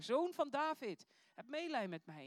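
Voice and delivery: trage, luide smeekroep; nog harder schreeuwen. A narrator's reading. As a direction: roep het langzaam en nog luider. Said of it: "schreeuwde des te harder". (nog harder en trager geschreeuwd)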